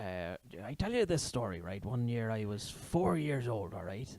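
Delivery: slowish Welsh lilt drifting West Country; old Welsh storyteller. Acted. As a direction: spin a yarn as a Welsh old man. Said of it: "You do a good Welsh accent".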